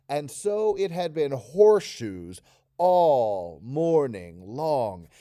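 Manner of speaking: slow, drawn-out bored reading. Shown as a demonstration. Teacher demonstrating a bored Taryn for students. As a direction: drag it out as if endlessly bored. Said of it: "I want this to sound like he's very bored".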